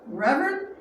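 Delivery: reply with a nervous laugh creeping in; uneasy laugh. A narrator's reading. Bartender answers the reverend with an uneasy laugh. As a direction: laugh uneasily through the words, slowing at the end. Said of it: "laughed uneasily as he replied".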